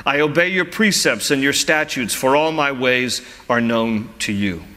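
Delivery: psalm read aloud, lifted phrases settling at verse ends; scripture reading. Acted. Pastor reading psalm verses to his congregation, measured scripture reading.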